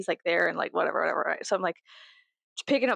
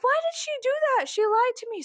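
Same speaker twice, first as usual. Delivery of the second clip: mock betrayal. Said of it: "I'm like".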